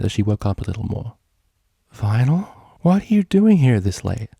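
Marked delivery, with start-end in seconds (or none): 1.9-4.3 higher, louder startled question; surprised. Acted. Bonbon surprised to see Vinyl at her window. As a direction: wake up and stare in surprise.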